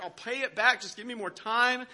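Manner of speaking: a mild begging tone, voice lifted; pleading. Acted. Servant to the master about his debt, mildly acted pleading. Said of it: "he pleads and he basically lies".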